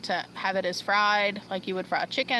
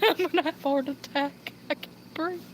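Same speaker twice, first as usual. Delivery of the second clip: breathless laughing, gasping between words; laughing so hard her chest hurts; laughing fit; 7 semitones higher, 4 dB quieter than usual. Real, not acted. Laughing too hard to breathe, says so to everyone. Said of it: "My chest is hurt".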